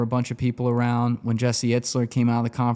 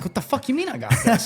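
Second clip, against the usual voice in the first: mock panic; 13 semitones higher than usual. Panicked reply to manager retold.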